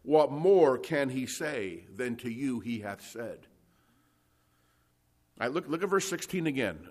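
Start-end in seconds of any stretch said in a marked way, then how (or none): 0.0-3.5 slow recited hymn line. Retold or imitated. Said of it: "like the old song says".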